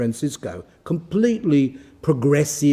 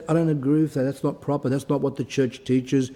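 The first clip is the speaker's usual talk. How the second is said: softer, calm and steady correction; 3 dB quieter than usual. Shown as a demonstration. Parent calmly telling a son the church disagrees, quietly firm. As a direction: say it gently but firmly, no anger. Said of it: "You just say it calmly".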